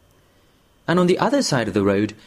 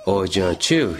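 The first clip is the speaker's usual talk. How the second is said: gentle; 3 semitones lower than usual. Acted. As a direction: say the name as gently as you can. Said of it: "as gently as he could".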